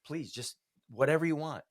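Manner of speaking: pleading with God, pitch rising; imitated prayer of desperate surrender; retold crying out. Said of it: "I'm crying out to God".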